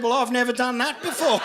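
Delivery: mocking her words back with a straight face; deadpan punchline echo. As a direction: throw her own line back at her, dry.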